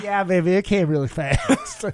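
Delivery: put-on Southern accent; Southern belle accent. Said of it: "picked this fucking accent up".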